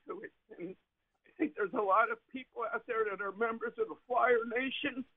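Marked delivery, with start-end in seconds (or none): 1.2-5.0 getting emotional. Real, not acted. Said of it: "I'm getting emotional".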